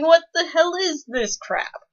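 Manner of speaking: high, loud mock outrage; half-joking what-the-hell disbelief; outraged disbelief. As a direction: act out your shocked reaction to bad writing. Retelling own outraged reaction.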